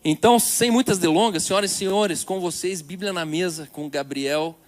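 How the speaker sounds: showman host introducing the guest; grand entrance announcement. Acted. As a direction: build it up and present the speaker. (anúncio grandioso de entrada)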